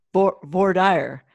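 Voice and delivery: slow, careful Michigan accent. Real, not acted. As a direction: sound out voir dire slowly, Michigan style. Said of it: "you're doing it with a Michigan accent".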